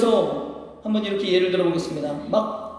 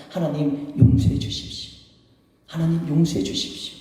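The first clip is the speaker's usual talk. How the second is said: contrite prayer; 2 semitones lower than usual. Acted. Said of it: "하나님 앞에 엎드려서 기도해야죠".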